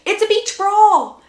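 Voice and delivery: loud, high, drawn-out hype; hyped announcement. A narrator's reading. Narrator hyping a brawl at the beach, excited and loud. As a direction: announce it like a big spectacle, stretched out.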